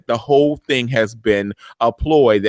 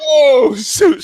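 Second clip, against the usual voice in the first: surprised; 12 semitones higher, 6 dB louder than usual. Retold or imitated. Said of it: "I was like".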